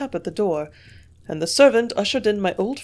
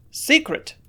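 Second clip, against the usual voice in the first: snorted; 8 semitones higher, 5 dB louder than usual. A narrator's reading. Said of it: "he snorted".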